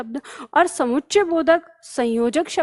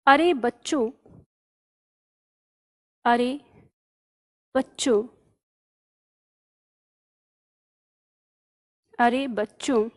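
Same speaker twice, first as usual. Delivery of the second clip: slow halting surprised read; mild slow wonder; slow drawn-out surprise; 2 semitones lower, 3 dB quieter than usual. Shown as a demonstration. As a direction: stretch it out, pausing between words. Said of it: "तो यहाँ पे आश्चर्य है".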